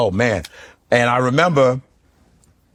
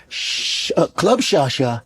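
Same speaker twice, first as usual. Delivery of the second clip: Shannon Sharpe impression; slower than usual.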